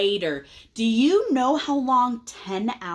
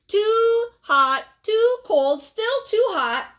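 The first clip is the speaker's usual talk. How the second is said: louder, higher whining; whiny complaint; 13 semitones higher, 5 dB louder, slower than usual. Acted. Pigeon complaining, reading aloud.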